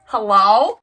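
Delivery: shocked. Retold or imitated. Reader finds the book signed by surprise, shocked. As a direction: blurt it out in mock shock. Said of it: "I was, like, so shocked".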